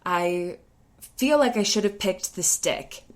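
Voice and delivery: put-on a touch of a kid sobbing it out; imitated tearful boy; imitated crying kid. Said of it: "and he's crying through this".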